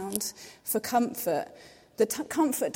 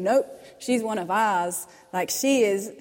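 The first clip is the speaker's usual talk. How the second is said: louder, firm, stand up for her; defiant declaration; 5 dB louder than usual. Acted. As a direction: declare it like a defending army. Cavalry defending, claiming her.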